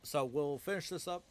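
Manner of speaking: words jolted by hiccups. Real, not acted. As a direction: push through the hiccups. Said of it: "Really bad hiccups".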